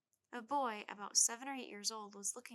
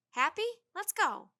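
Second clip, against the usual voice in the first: annoyed; 8 semitones higher, 11 dB louder, slower than usual. A narrator's reading. Jack annoyed at Tad.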